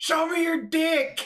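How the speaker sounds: shrill, high, all-out yell. Retelling yelling across a bar as loud as possible: imitating own loud yell. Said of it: "yelling across the bar as loud as I can".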